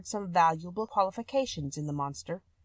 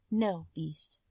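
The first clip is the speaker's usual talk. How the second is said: timid, hesitant refusal; trembling; 2 semitones lower, 3 dB quieter than usual. A narrator's reading. Beauty refuses the Beast, mildly trembling. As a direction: afraid to anger him. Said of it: "she said, trembling".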